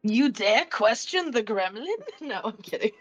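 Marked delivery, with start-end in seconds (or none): 0.0-1.9 slow mock-offended challenge; mock menace. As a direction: draw it out as a playful threat. Mock threat, then says kidding.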